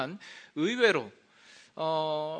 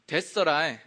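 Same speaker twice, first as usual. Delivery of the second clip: Jeolla dialect, a bit louder; 5 dB louder than usual. Shown as a demonstration. Pastor demonstrating Jeolla dialect, Jeolla speech. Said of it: "전라도는".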